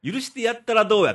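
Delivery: lightly mimicked Kansai catchphrase; mimicked intonation. Host teases co-host that his impressions share one intonation, mild mimicry. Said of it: "イントネーションが".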